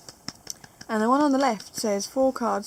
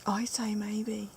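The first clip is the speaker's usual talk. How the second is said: whispered; 7 dB quieter, slower than usual. Real, not acted. Teasing contrary reply.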